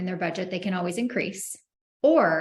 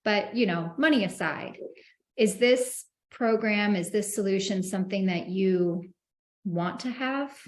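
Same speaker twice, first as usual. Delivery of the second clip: demo sales pitch. Shown as a demonstration. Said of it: "the budget objection I like to use is".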